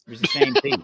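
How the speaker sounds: squeaky high disbelief; incredulous. Real, not acted. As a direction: pitch it way up in disbelief. Punchline, incredulous.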